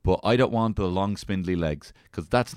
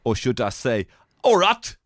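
put-on Australian-to-South-African accent; 2 semitones higher, 4 dB louder, slower than usual. Putting on accents before accent discussion.

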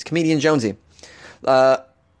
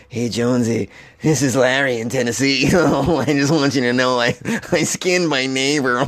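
caller voice. Pretend. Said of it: "I don't want, like".

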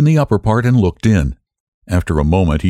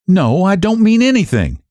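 decisive; 12 semitones higher than usual. A narrator's reading. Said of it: "she answered with decision".

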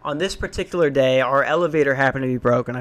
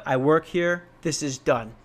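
pissed-off investigator; 4 dB quieter than usual. Retold or imitated. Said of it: "like an, a pissed off investigator".

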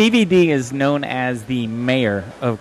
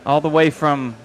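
raised, drawn-out guest introduction; show announcer; 4 semitones higher, 4 dB louder than usual. Acted. Host introducing tonight's guest to listeners, announcer style. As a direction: build up the guest like an emcee.

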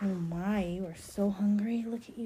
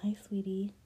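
whisper. Acted. Checking on nursing baby.

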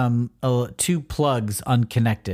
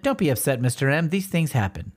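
lightly acted, naive reassurance; cheerful naive idiot; 2 semitones higher than usual. Captain Atom placates Mister M after the accident, mock cheerful. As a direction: soothe with mild mock cheer. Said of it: "kind of sort of a cheerful, naive idiot".

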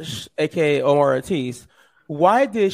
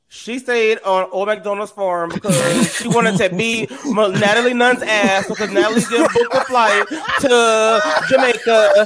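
imitating Omar's accent; 3 semitones higher than usual. Host doing Omar in a Snatch Game answer, lightly voiced. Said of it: "let me get the accent right".

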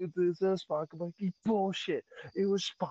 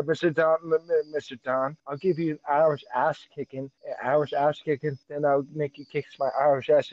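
loud hammed-up trash talk; mock Irish threat; 6 dB louder than usual. Trash-talking his co-host, loud mock threat. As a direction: bellow it as a mock brawler.

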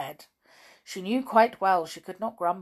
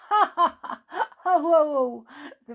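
high, loud mocking ha ha ho ho; toys laughing; 9 semitones higher, 7 dB louder than usual. Toys laughing at Amelia Jane's tumble, gleeful. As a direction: laugh at her fall. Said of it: "laughed the toys".

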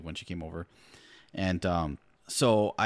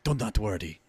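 put-on Puss in Boots Hispanic accent; 4 semitones higher than usual. Husband assuring his wife he can voice the role, mock Hispanic accent. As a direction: reassure with a swashbuckling Spanish accent. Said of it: "Hispanic accent".

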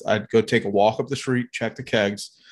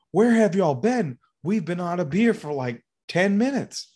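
imitated complaint; 7 semitones higher than usual. Complaining trailer man voiced.

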